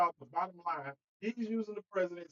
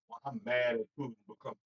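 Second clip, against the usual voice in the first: mock Trump voice; 7 semitones lower than usual. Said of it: "the way he talks about Putin".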